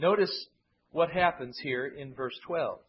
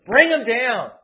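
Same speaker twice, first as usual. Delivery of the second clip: loud, higher bring 'em down; louder, higher mock war cry; hostile shout; 6 semitones higher, 12 dB louder, slower than usual. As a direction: jeer like an enemy at the siege. Quoting the Edomites' cry.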